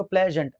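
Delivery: प्लेजेंट in two beats, प्ले, then जेंट; broken into syllables. Shown as a demonstration. Teacher showing students two vowel sounds, प्लेजेंट said syllable by syllable. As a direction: separate the halves of प्लेजेंट. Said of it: "देखो इसको भी आप break करोगे".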